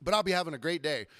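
usual speaking voice

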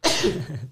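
a real sneeze caught mid-talk; sneeze, muffled and short; sneezing. Real, not acted. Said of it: "Peraí, vou espirrar".

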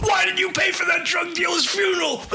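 shrill mock outrage; retold scream. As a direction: yell it from the back of the room.

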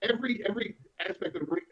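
choppy cutting-out audio; bad connection dropping words; uneven volume. Real, not acted. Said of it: "Your audio's cutting out".

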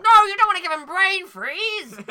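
high, very loud protest; mock horrified shout. Host appalled by McFlurry torture, mock horrified shout. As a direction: cry out in exaggerated alarm.

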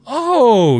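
high, loud dawning "oh"; sudden realization. A narrator's reading. Store worker grasping how the voice was done, sudden realization. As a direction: voice leaps up as it clicks.

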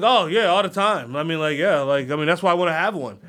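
a lightly voiced creepy applicant; mock casual applicant. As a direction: toss it off like it's nothing. Applicant answers cheerfully in skit.

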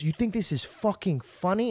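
imitating angry confrontation. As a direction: confront a kid, mildly acted. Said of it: "he's talking like this to me".

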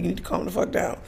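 hushed, understated imitation of a whisper; softly retold calming order. Friend mutes a panicking woman on camera, mock whisper. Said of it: "That's what he's whispering in my ear".

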